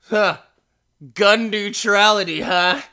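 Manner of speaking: high, loud put-on voice; hammed-up challenge to a stranger; mock-incredulous, pushed up high and loud; exaggerated character voice. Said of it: "he doesn't sound like that".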